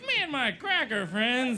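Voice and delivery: layered white guy voice. Shown as a demonstration. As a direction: demo a comic's take on a white guy. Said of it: "That's like my white guy doing a black guy doing a white guy voice".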